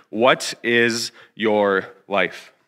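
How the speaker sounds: very slow, word by word; deliberate key question. Real, not acted. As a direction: space out each word for weight. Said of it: "continue to remind you of, of this question".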